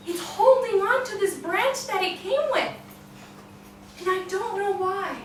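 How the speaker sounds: a worried servant explaining failure; apologetic falconer. Acted.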